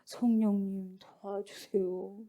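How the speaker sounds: very slow, low mock prayer; passive plea. Onlooker praying without moving away, slow soft passive plea. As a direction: ask softly with no effort at all. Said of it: "현장을 보고 있는데".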